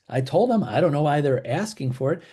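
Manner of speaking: acted protest, jumping up in pitch at the start; defensive protest. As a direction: play a mildly exasperated agent defending themselves. Agent voiced defending self to seller.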